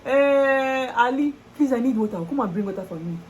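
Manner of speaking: calling out. Retold or imitated. Calling water vendor.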